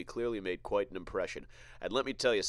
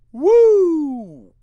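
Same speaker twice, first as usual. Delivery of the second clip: shrill, very high whoop; wild whoop; 18 dB louder than usual. Real, not acted. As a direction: let out a huge whoop. Reacting to the girl's age.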